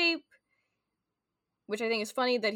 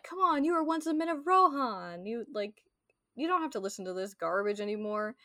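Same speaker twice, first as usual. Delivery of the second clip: rousing plea; 3 semitones higher, 3 dB louder than usual. Retold or imitated. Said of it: "Theoden being like".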